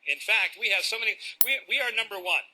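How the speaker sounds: a mock-proud salesman; bragging presenter. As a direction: oversell the firm to the audience. Parodies a boastful company presenter.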